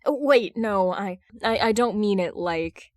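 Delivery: blurting out a flustered take-back; flustered correction. Acted. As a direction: catch yourself mid-sentence, embarrassed. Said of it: "he corrects himself".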